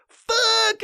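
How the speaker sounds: high, loud frustrated cry; frustrated yell. Retold or imitated. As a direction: blurt it out in mock annoyance. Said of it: "and I was like".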